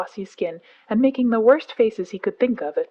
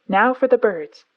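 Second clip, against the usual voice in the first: higher and louder, a bird call in the voice; kite's whistle; 4 semitones higher, 5 dB louder than usual. A narrator's reading. Mowgli shows the bird words, whistling like a kite. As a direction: end the sentence with a kite's whistle. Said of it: "with the kite's whistle at the end".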